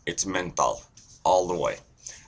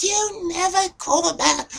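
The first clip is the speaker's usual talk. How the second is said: very high falsetto Jewish mother; Jewish accent; 3 dB louder than usual. Shown as a demonstration. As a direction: echo the nagging in a squeaky Jewish accent. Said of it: "so there's Jewish".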